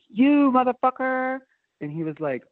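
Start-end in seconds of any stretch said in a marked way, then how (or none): 0.1-1.4 a high, slow, shrieking accusation at the thief; spring out and scream it at him; a high-pitched yell of recognition; retold furious yell. Confronting the thief in the station.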